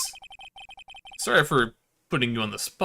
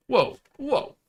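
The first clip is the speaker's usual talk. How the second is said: surprised; 11 semitones higher, 3 dB louder than usual. Real, not acted. Player reacting to bellboy.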